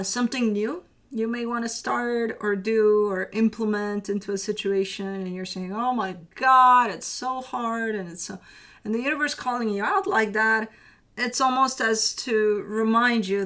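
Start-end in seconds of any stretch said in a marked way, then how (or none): 5.7-8.0 slow, drawn-out mock whine; whining. A client complaining their task is hard, slow mock whine. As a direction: stretch it out like a sulky complaint. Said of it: "Stop whining".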